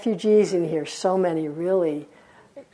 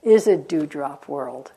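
slow poem reading; 3 semitones lower, slower than usual. Acted. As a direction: read it slowly and let it die away. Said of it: "It said".

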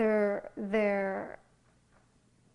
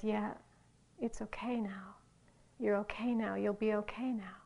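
softer, half-whispered inner voice; compassionate tone; 5 dB quieter than usual. Retold or imitated. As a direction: reassure yourself tenderly. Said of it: "with that compassionate tone".

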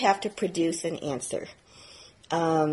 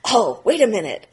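mock grandiosity; 4 semitones higher than usual. Student lampooning his own spiritual hubris, gushing and laughing. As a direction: gush over your own enlightenment, laughing. Mock inflated enlightened inner voice.

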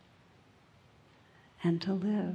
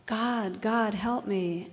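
higher, drawn-out plea to God; mildly raised storyteller's cry for help; mock yelling for help; 3 semitones higher, slower than usual. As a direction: call up for help, acting it out. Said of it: "he just yells out".

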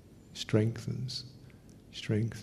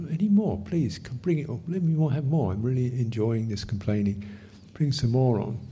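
eager invitation. Shown as a demonstration. Teacher demonstrating eager welcome of complaints, playfully inviting. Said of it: "then complain some more".

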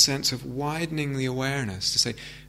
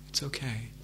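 much softer, gentle self-soothing; soft reassurance; 10 dB quieter than usual. Shown as a demonstration. Teacher reparenting oneself aloud, soft and tender. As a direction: let it fall softly, twice, tenderly. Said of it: "in a gentle tone of voice".

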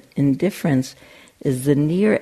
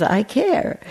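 much higher, laughing; Pierre, laughing; 9 semitones higher than usual. Retold or imitated. Rescued boy answering his parents, high and laughing. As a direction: squeak it out mid-laugh. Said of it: "And he says".

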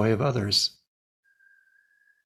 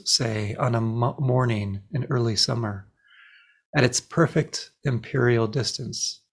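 poem recitation. Acted. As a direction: read the poem phrase by phrase, unhurried. It's a poem entitled The Sun.

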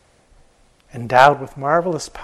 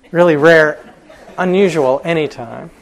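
a laugh breaking through, louder and higher; laughing aside; 3 semitones higher, 9 dB louder than usual. Real, not acted. Narrator laughs at own aside to listeners, louder and higher. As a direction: chuckle at your own joke.

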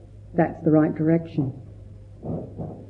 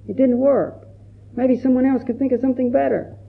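higher, mock resigned complaint; discouraged inner voice; 7 semitones higher than usual. Teacher voices a student's self-doubt, raised and resigned. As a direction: sound like giving up on yourself.

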